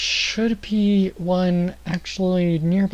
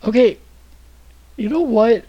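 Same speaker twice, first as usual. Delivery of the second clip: exasperated; 6 semitones higher, 5 dB louder than usual. Real, not acted. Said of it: "really bad at coming up with voices".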